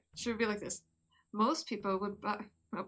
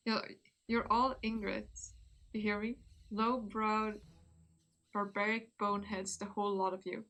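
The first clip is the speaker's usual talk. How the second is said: slow scornful insults. Shown as a demonstration. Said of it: "Do we want to scream?".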